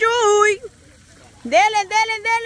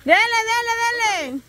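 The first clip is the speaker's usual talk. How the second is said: cheering on; 5 semitones higher than usual. Real, not acted. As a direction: egg the player on. Host cheers player on.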